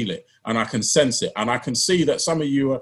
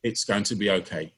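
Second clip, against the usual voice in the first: gentle reassurance; 5 semitones lower, 6 dB quieter than usual. Pretend. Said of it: "all I can hear is God's still small voice".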